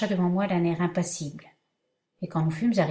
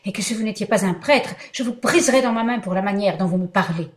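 louder, threatening outburst; furious threat; 4 dB louder than usual. Acted. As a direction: threaten him in rage. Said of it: "m'écriai-je".

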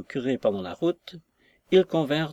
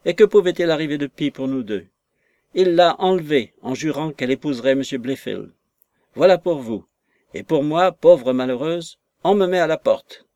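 mildly acted indignant complaint; aggrieved lament; 2 semitones higher, 4 dB louder than usual. Dismissed maid bewailing her own lot, aggrieved. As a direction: build to a louder, self-pitying cry.

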